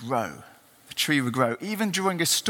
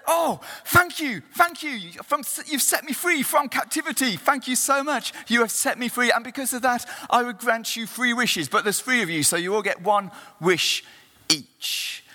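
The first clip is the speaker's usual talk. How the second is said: a lightly raised, thankful genie; 4 semitones higher than usual. Acted. Genie thanks the three men.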